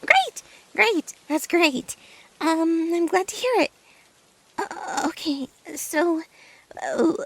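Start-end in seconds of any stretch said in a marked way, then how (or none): 0.1-3.7 excited. Acted. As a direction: burst out with delight. Friend agrees to hear story.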